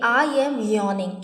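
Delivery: very slow, clear teacher enunciation; slow model sentence. Shown as a demonstration. Teacher shows students how to say it, very slowly. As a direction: stretch every word out for the class. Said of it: "तो मैं बोलूँगी".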